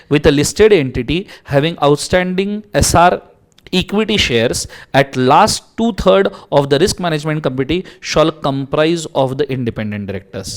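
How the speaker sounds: teacher reading law aloud; slow legal read. Acted. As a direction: read the clause out slowly and deliberately. Reading statute text.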